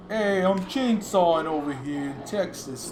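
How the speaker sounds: playful mock Jersey accent; lightly put-on Jersey accent. Streamer does a requested Jersey accent during a horror film, playfully. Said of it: "Do a Jersey accent".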